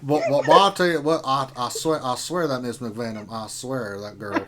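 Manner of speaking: blustery cartoon southern rooster, starting loud and tailing off; Foghorn Leghorn. Co-host riffs on Miss McVenom as a blustery southern cartoon rooster. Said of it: "that's more Foghorn Leghorn".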